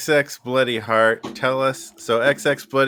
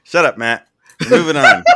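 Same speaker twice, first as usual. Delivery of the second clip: laughing; 6 semitones higher, 9 dB louder than usual. Real, not acted. Laughing brush-off.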